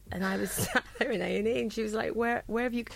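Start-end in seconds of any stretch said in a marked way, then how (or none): 2.1-2.8 higher, louder mock bewilderment, laughing; imitating off-her-face girl. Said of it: "she was off her face".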